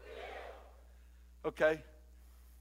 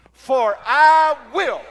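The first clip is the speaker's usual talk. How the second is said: booming, drawn-out "I", higher and very loud; speaking for God; 6 semitones higher, 14 dB louder, much slower than usual. Shown as a demonstration. Preacher shows congregation how to speak for God, booming. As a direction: proclaim it slowly with full authority. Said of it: "Say it like you're speaking for God".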